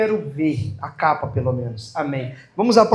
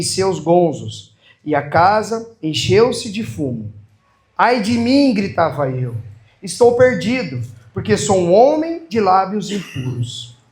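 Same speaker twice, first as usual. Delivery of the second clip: slow, deliberate proclamation with long phrases; stately liturgical reading; solemn scripture reading; slower than usual. Real, not acted. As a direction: proclaim each phrase to a congregation, unhurried.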